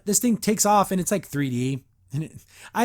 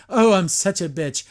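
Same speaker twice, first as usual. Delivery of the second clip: louder, hammed-up bitchy attitude; mock a self-satisfied troublemaker, louder; Double Trouble; 6 dB louder than usual. Mocking a troublemaker's whole attitude, hammed-up bitchy voice. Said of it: "literally Double Trouble's whole attitude".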